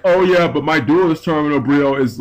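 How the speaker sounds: a light mock California surfer accent; lightly voiced California surf boy, bragging. Rarity collector bragging about his pricey card, light mock California surfer accent. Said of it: "fuck your California surfing boy accent".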